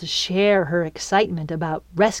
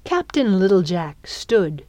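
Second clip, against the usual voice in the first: usual speaking voice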